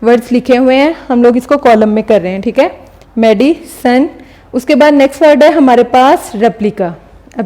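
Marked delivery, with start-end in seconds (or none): 3.2-4.1 मेडिसन with a short break after मेडि; syllable break. Shown as a demonstration. Teacher reviewing the column, मेडिसन lightly split in two. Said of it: "हम इस तरीके से बोलेंगे".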